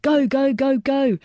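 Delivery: high, repeated urgent calls; urgent urging. A narrator's reading. Soldier hurrying the rescue off the roof, high urging. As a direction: drive them on with each high call.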